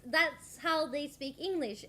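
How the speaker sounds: slow Norwegian-accented English; drawn-out Norwegian tune on English words. Shown as a demonstration. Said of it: "This is literally the Norwegian accent".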